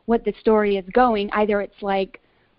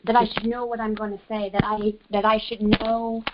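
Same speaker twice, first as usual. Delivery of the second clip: breaking up on a bad phone line; static on the line. Real, not acted. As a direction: voice drowned in crackling static. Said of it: "I think there's a lot of static on the line".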